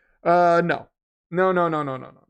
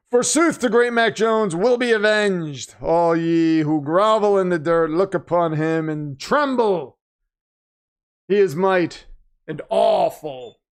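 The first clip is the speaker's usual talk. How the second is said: mock archaic proclamation; slower than usual. Reading fan's archaic super chat aloud.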